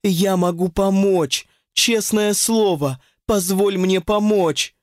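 high, slow plea down the phone; a mild, drawn-out plea; pleading. Acted. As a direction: beg her to let you help. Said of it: "взмолилась Ирина".

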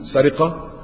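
slow, weighted legal terms; deliberate listing. Shown as a demonstration. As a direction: spell out each condition slowly. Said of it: "lists legal conditions deliberately".

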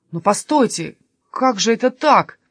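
bewildered question, lifting at the end; disbelieving. Acted. Jesper unable to accept Sofia's refusal, mildly incredulous. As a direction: protest in mild disbelief. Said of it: "не поверил Еспер".

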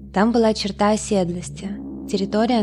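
plain reading voice

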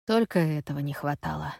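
low weary sigh through the words. A narrator's reading. Gaz sighs to Effie about the delay, low and weary. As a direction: let it out on a tired sigh. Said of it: "вздыхает он".

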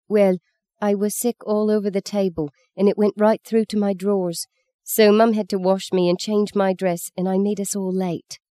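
put-on little girl innocently explains to the nun; artless explanation. A narrator's reading. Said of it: "Maggie explained artlessly".

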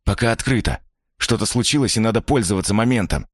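character voice. Acted. Stranger urges him on.

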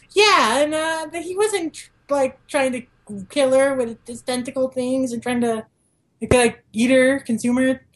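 high, lightly mocking sidekick excuse-making; goofy Shinpachi voice. Shinpachi rationalizing the monster as a family hug, mock high voice. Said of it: "Shinpachi is, like, going along".

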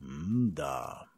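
low, drawn-out pensive hum; a lost, thoughtful grunt; bewildered musing. A narrator's reading. Soldier musing at the empty headquarters, low and lost. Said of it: "прорік розгублено й роздумливо".

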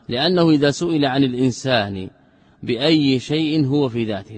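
loud, measured recitation of a textbook; reading text aloud. Acted. Teacher reads the book to students, loud measured recitation. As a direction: read out the text firmly, stretching key words.

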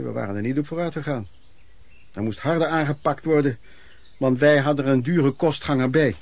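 ordinary talk

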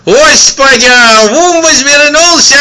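put-on high, loud old man crying out; old man's yell. A narrator's reading. Old man shouting about the miracle, loud and high. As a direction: cry out like an excited old peasant. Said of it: "завопил давешний старичок".

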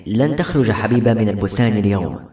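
"لن تخرج حبيبة من البستان اليوم" with each word measured out; every word emphasised. A narrator's reading. Barakat forbids Habiba to leave, stressing every word of "لن تخرج حبيبة من البستان اليوم". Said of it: "وهو يوقع كل كلمة من كلماته".

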